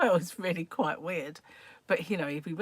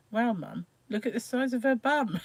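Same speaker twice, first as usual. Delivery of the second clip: mock shout of a little boy, only slightly raised; child's mock shout; 5 semitones higher than usual. Little boy to his mum at the surgery, mock shouting. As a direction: imitate a child's excited call-out, climbing in pitch. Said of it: "he shouted".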